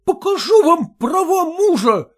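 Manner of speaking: high, loud furious husband; voiced husband shaking with rage; stammering with rage. A narrator's reading. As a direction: choke on your anger. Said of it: "заикаясь от гнева".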